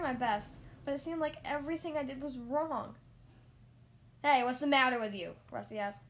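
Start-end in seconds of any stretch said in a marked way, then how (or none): 4.2-5.4 loud, annoyed telling-off; irritated instructor raising the voice; exasperated shout. A narrator's reading. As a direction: yell at a clumsy pupil. Instructor yelling at learner driver.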